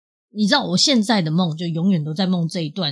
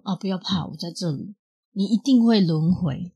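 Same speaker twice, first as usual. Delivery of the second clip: gentle reassurance. Retold or imitated. Comforting her past-life boy self.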